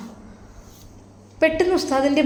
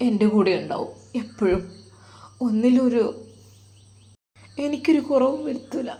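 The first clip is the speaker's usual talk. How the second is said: tearful; 4 dB quieter than usual. Acted. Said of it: "ആ ഉമ്മ കരയുവാൻ തുടങ്ങി".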